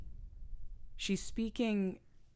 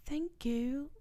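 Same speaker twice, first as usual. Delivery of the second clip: almost British; 9 semitones higher, 3 dB quieter than usual. Retold or imitated. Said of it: "it's almost British".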